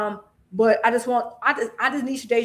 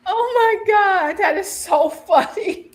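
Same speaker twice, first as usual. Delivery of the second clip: highly amused; 8 semitones higher, 5 dB louder than usual. Real, not acted. Amused by interrupting child.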